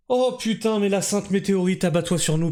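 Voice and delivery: exasperated mock prayer, starting high; mock imploring. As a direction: implore the heavens in comic despair.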